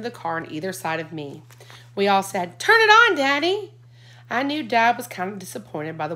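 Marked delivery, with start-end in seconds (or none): 2.6-3.7 high, loud begging; eager kids. A narrator's reading. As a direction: plead all together.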